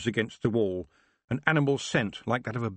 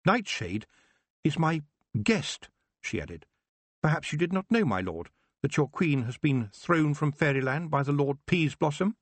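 put-on bold young witch; 7 semitones higher than usual. Tiffany addressing the king.

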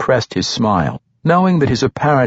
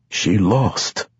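matter-of-fact. A narrator's reading. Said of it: "Grumpf said matter-of-factly".

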